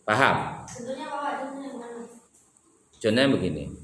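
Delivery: ordinary talk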